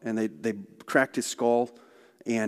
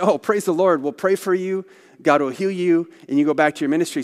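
high, loud, beaming blessing; elder blessing the missionary, high and loud with joy; joyful praise; 6 semitones higher, 7 dB louder than usual. Retold or imitated. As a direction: burst out praising the Lord. Leader reacts joyfully.

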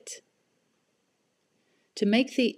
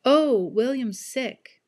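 concerned mother; 6 semitones higher, 6 dB louder, slower than usual. Acted. Mrs Kim voiced.

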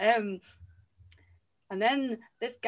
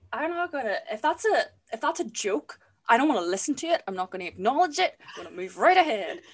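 mock defensive; 2 semitones higher, 4 dB louder, faster than usual. Real, not acted. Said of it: "whenever I'm feeling attacked and stressed".

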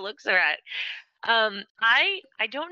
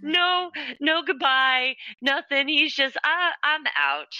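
amused, higher; 7 semitones higher, slower than usual. Retold or imitated. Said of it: "I was like".

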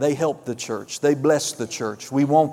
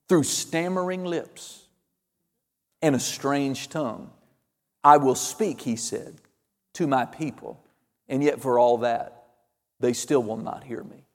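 solemn scripture recitation; 3 semitones lower, 4 dB quieter than usual. Acted. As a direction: recite God's words softly and gravely, with long pauses. Recites God's words from scripture.

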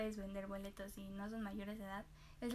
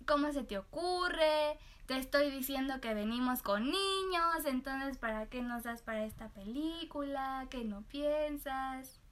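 mock scolding, slow and pointed; angry customer; slower than usual. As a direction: imitate the rude man telling her off. Rude customer scolding her. (cliente grosero regañando)

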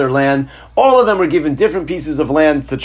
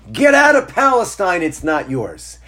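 mock yell; 4 semitones higher than usual. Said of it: "what do they yell".

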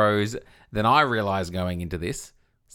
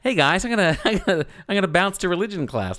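cool religion teacher; 7 semitones higher than usual. Retold or imitated. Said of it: "sound a bit like a cool religion teacher".

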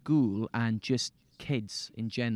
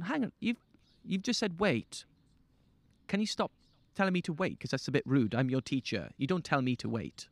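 retold teacher telling off; 3 dB quieter than usual. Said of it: "I've gone".

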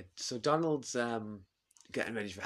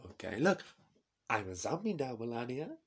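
put-on louder, higher proud Trump accent; Trump impression; 4 semitones higher, 4 dB louder than usual. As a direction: Trump shows off a mask. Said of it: "I can't get out of his accent now".

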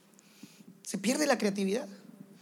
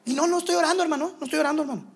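brazenly cynical; 5 semitones higher, faster than usual. Retold or imitated. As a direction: admit it without shame. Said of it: "Se vuelve cínico". (confesión descarada, más aguda y fuerte)

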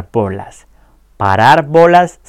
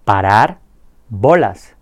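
slow model pronunciation; slower than usual. Shown as a demonstration. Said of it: "voy a decir la expresión".

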